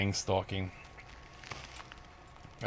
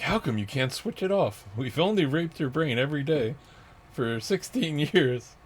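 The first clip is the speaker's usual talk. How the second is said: mocking tormentors; 6 semitones higher, 4 dB louder than usual. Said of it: "they're like".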